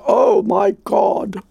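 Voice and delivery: a slow, drawn-out startled cry; surprised exclaim. Retold or imitated. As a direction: retell her sudden gasp of surprise. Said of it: "I heard a woman exclaim".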